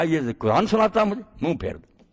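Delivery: a hint of the cruel governor ordering his men; tyrant's order. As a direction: mimic the tyrant barking a command, understated. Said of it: "تو کہنے لگا".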